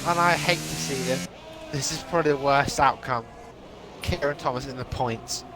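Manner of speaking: talking through hiccups. Real, not acted. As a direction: voice jumps with hiccups. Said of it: "I've got the hiccups".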